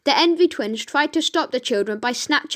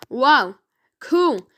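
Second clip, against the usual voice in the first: excited shout; 4 dB louder than usual. Acted. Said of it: "shouted the children".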